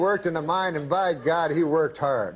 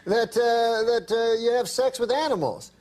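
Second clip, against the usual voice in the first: higher, mock indignant protest; 5 semitones higher than usual. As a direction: play Uncle Hector as a man wrongly accused, mildly outraged. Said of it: "like, indignant".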